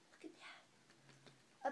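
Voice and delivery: drawn-out hushed wonder; slow secretive whisper. Pretend. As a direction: whisper it slowly to draw the baby in. Reading suspense to baby.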